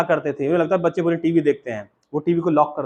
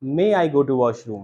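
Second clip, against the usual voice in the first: correcting teacher; 3 semitones lower, much slower than usual. Retold or imitated. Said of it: "ma'am ने कहा".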